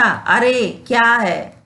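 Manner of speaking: drawn-out amazed "अरे क्या है?"; slow astonished exclamation; slow surprise. Shown as a demonstration. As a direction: stretch it out in wonder. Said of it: "अच्छा".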